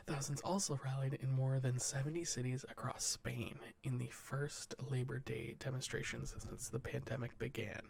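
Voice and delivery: steady newsreader delivery; news read. Acted. Podcast host reading the headlines to cohosts, newsreader style. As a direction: read the wire report to the cohosts, measured news voice. Reads news stories aloud.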